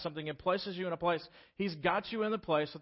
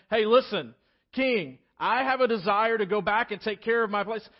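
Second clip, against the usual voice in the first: higher, louder nervous plea; mock anxious pleading to the king; anxious request; 6 semitones higher, 8 dB louder than usual. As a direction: blurt out the big ask. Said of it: "the fear built up".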